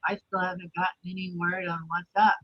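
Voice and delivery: distant voice on a bad call line; far away. Real, not acted. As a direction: sound far off from the mic. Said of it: "you sound so far away".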